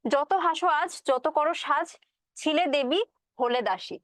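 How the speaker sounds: measured verse reading; poem recital. Acted. Teacher reciting the stanza before explaining it.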